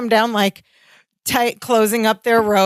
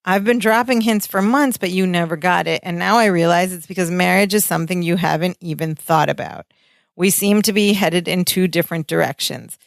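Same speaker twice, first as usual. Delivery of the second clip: low-pitched, earnest retold plea; emotional; 4 semitones lower than usual. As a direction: quote a hurt speech with understated seriousness. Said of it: "really emotional".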